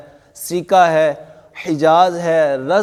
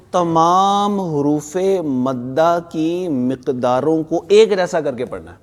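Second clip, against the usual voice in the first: slow dictation; slower than usual. Shown as a demonstration. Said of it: "اونچی آواز سے۔".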